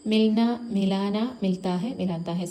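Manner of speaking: slow and clear, like showing the class the change from മിൽന to മിലാന; മിൽന and മിലാന drawn out for students; slow teaching demo. Shown as a demonstration. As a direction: say മിൽന then മിലാന slowly, each syllable spelled out. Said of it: "ഓരോ ആ മാത്രം ഇട്ട് കൊടുക്കുക".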